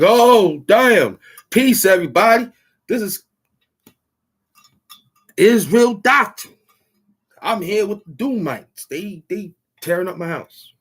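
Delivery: high, loud, whiny mock panic; mocking impression. Mocking a rival vlogger who panics about creatures in his house, high and loud. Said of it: "Think you could talk like this?".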